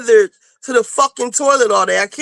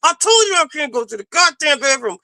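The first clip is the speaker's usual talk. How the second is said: exasperated retort; 3 semitones higher, faster than usual. Retold or imitated. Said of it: "I be wanting to be like".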